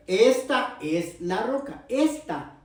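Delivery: slow, drawn-out "Esta", each word set apart; slow emphatic demonstration, "Esta" weighted; stress on "Esta". Shown as a demonstration. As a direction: lean on "Esta" as if pointing at it. Stresses which rock is meant.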